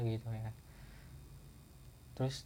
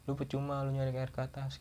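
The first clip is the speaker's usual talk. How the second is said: friend's reprimand; 4 dB quieter than usual. Retold or imitated. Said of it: "kata dia".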